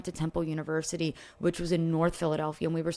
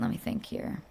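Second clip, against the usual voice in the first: whispered to self; 3 semitones higher, 7 dB quieter than usual. Real, not acted. Thinking aloud to herself.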